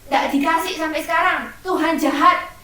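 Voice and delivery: mock sulky child complaint; grumbling child. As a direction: nag at God like a cross kid. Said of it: "kalau doa terus ngomel-ngomel".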